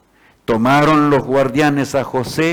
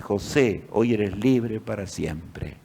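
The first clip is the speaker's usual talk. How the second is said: softer, slow, halting read; spelling it out; 6 semitones lower, 8 dB quieter, slower than usual. A narrator's reading. José slowly spells out his freedom letter, quiet and halting. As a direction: sound out each word softly in disbelief. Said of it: "José deletreaba".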